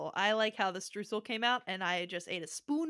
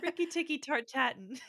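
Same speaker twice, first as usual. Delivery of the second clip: laughing; 3 semitones higher than usual. Real, not acted. Joking wordplay through giggles.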